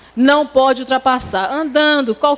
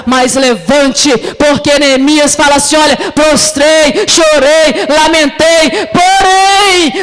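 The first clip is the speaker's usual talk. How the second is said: impassioned preaching; 3 semitones higher, 5 dB louder, slower than usual. Real, not acted. Preacher urges sisters to rise like Nehemiah, building impassioned preaching. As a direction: drive each word home like a revival preacher.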